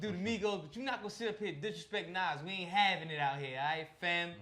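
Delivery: put-on loud, fired-up New York accent. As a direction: lay the New York accent on while scolding. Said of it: "did I do my New York accent".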